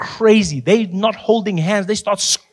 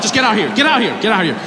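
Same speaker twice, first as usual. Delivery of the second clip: fed-up agent; 4 semitones higher, faster than usual. Retold or imitated. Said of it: "finally, he's like".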